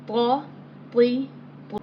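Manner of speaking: "Ta, ti, tu" with a thin light Arabic t. Shown as a demonstration. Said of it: "ta will be pronounced in a thin tone".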